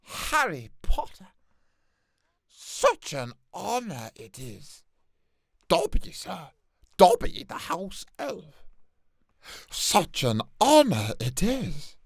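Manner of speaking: a hint of squeaky house elf; lightly voiced house elf; Dobby voice. Announcing himself to Harry, lightly elfin and eager. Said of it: "And next, Dobby".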